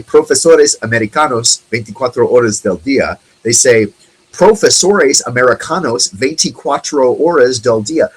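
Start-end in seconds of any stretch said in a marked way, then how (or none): 0.0-3.2 how the ad could have said it, good Spanish accent; proper Spanish accent. Shown as a demonstration. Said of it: "They, they don't say". 4.3-8.1 Profesores with an English r and flat American vowels, a bit higher; the ad's deliberate gringo accent; American accent in Spanish. Shown as a demonstration. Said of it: "The way an American speaking Spanish would say it".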